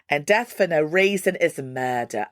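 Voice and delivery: lightly put-on English accent on the lyric. Host reading a singer's lyric, mock English accent. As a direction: slip into an English accent by the end. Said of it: "switch into an English accent at the end of it".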